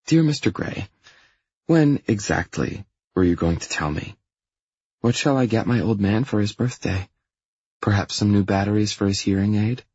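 lightly voiced female email writer; a hint of a female character voice; teasing girlfriend. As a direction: read the email with a slightly lifted, cheeky lilt. Reads girlfriend's email in her voice.

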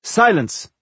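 high commanding shout; sinister command. Acted. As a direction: snap it as a sinister elf. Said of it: "commanded Namora in her sinister Alf's voice".

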